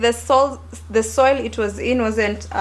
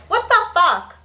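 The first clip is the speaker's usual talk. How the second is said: outraged; 8 semitones higher, 4 dB louder than usual. Real, not acted. Outraged at agent.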